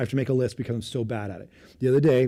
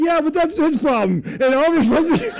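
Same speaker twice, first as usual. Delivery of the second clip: dismissive; 13 semitones higher, 7 dB louder than usual. Retold or imitated. Dad dismisses wife's point.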